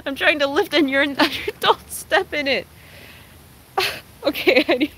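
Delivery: real laughter mid-sentence; giggling through the words; laughing while talking. Real, not acted. Dog steps in the pool.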